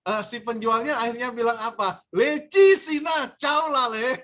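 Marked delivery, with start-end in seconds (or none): 2.2-4.2 angry Cantonese scolding. Retold or imitated.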